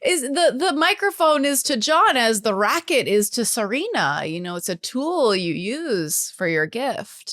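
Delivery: beat poet. Pretend. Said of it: "why are you talking like a beat poet".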